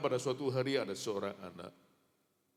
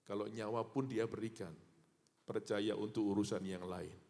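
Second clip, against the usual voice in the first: usual speaking voice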